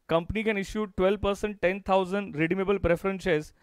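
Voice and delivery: very slow, word by word; slow classroom dictation. Shown as a demonstration. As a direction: spell it out for students to copy. Dictating the question again.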